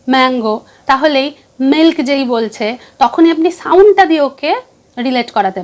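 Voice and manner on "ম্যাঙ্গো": ম্যাঙ্গো led in by a hummed উম; phonics sound before the word. Shown as a demonstration. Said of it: "উম, উম". (উম ধ্বনি দিয়ে mango)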